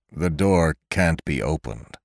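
low, slow despairing groan. Acted. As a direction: moan it out, beaten by the lock. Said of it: "he groaned".

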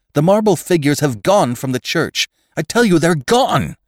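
high, urgent insistence; frantic. A narrator's reading. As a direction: insist in panic, rising to a cry. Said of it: "a little less frantic".

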